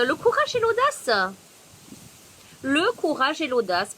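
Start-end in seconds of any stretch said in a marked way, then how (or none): 0.1-1.1 high, loud card announcement; shouting over wind. Real, not acted. Reads card title over wind.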